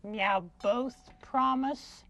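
slow, meowing cat-puppet voice; pussycat puppet. Acted. Cat asking a friend to keep a secret, slow meowing voice. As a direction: draw out the words like a talking cat.

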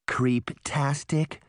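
slow, drawn-out mock creeped-out; mock shudder. Daphne pretending to shudder at Mirror's name. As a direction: pretend to shiver at the word. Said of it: "pretending to shudder".

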